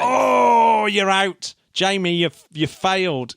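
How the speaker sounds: high, loud groan of near-miss drama; excited outcry. Real, not acted. Host telling co-host he failed the test, excited outcry. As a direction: cry out that they've failed.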